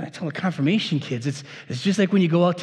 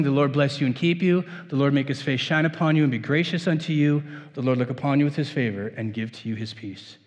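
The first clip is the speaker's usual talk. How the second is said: benediction. Acted. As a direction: pronounce the blessing calmly. Gives the benediction.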